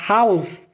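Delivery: "house" with a light, breathed H; clean H. Shown as a demonstration. Teacher warning learners about H, clean sound. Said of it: "não pronunciar o H gutural".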